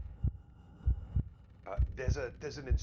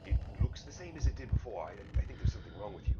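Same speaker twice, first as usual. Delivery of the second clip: distracted scholar voice; faster than usual. GM voices Ixon.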